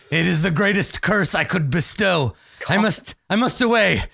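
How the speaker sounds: hammed-up dramatic vampire. Vampire protests dramatically against the player's wish. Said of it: "He's like".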